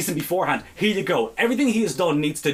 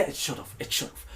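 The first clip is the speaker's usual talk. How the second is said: muttered agreement; 2 semitones lower, 11 dB quieter than usual. Real, not acted.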